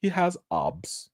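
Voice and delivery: "obs" said with a broad open o, mocking the actress; imitating her accent. Vlogger imitating the actress on Family Feud saying obs. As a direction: say "obs" like the word rhymes with "lobs", imitating her. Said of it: "she said obs".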